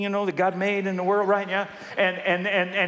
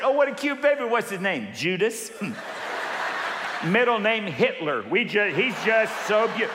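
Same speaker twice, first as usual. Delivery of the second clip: higher, lightly mocking cooing voice; cooing admirer; 3 semitones higher than usual. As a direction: coo over the baby, tongue in cheek.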